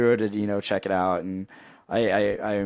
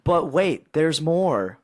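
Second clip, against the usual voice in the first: higher-pitched mock infomercial reveal; infomercial pitchman; 5 semitones higher, much slower than usual. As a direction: tease the big bonus like a TV pitchman.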